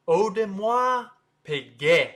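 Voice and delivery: Audemars Piguet as oh-duh-mwah pee-gay, slow and high; slow French pronunciation. Shown as a demonstration. Teacher puts the syllables together, slow French pronunciation. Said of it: "start with O, then de".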